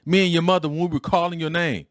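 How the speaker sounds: high, loud-ish father's scolding; a dad going off at his son in the car; retold angry scolding. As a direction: scold the boy like a worried dad. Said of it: "He was like".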